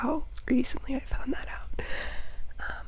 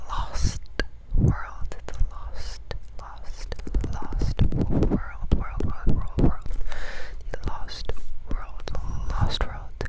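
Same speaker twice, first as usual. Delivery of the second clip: asmr trigger words; much slower than usual. Acted.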